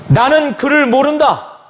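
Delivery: firm denial. Retold or imitated. Peter denies Jesus to the servant girl, firmly. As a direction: act out a flat-out disowning.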